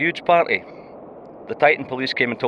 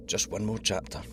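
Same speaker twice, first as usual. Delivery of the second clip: put-on softer, like a kid begging to stay up; childlike plea; 3 semitones lower, 10 dB quieter than usual. Crewmate to captain, pleading softly like a child at bedtime. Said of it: "You sound like my daughter".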